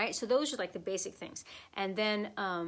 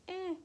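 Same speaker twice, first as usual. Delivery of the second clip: small deflated "eh" noise; mock a weak accent with a limp "eh"; feeble "eh"; 11 semitones higher than usual. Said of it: "but it actually goes".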